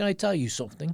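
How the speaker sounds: put-on clumsy, not-quite British accent. Telling a story about a man in a loud club, bad british accent impression. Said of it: "he had a British accent, which I can't do very well".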